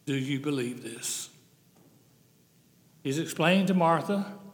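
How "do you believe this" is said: soft question. Shown as a demonstration. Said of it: "the most important question".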